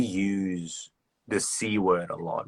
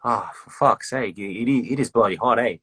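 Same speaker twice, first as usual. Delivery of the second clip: Aussie emphasis; 3 semitones higher than usual. Retold or imitated. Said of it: "It's like".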